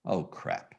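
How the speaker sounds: muttered dismay. Retold or imitated. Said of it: "And I said".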